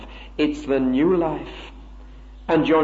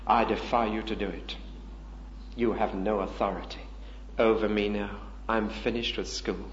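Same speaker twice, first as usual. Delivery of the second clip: calm defiance; 4 semitones lower, 4 dB quieter than usual. Pretend. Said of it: "I'd say".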